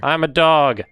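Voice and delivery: cyborg voice filter; robotic processed voice; half robot voice. Acted. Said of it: "I'll make it sound like you're a cyborg".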